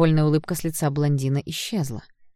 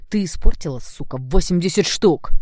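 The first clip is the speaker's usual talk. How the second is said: seething outburst; 3 semitones higher, 6 dB louder than usual. Acted. Blond rages at the girl over the ruined sneakers, loud and seething. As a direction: let восемьдесят штук burst out in rage. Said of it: "продолжал шипеть блондин".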